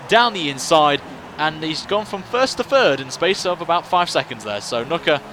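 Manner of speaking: fast, lively race play-by-play; motorsport commentator. Acted. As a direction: call the overtakes as they happen.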